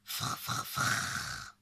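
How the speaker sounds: unvoiced rolled "frr" noises; weasel rustle. Narrator imitates weasel slipping away. (frottement soufflé de belette)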